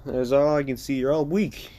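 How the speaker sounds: playful jab at the class, not mean. Acted. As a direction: tease the students, half joking. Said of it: "said that in a playful tone".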